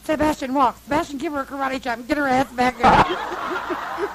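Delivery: loud command, played for laughs; re-enacted urgent order. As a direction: order him after her, half laughing at the end. Acts out ordering Sebastian after her.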